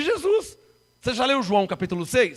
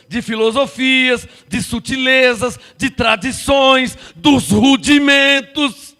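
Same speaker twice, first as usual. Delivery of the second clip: building list; 5 dB louder, much slower than usual. Real, not acted.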